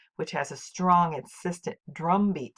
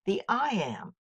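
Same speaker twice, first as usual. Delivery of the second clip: raised, set-apart section heading; announced title; 6 semitones higher than usual. Shown as a demonstration. Teacher to viewers, naming the foot in a high title voice. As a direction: announce the new term like a title.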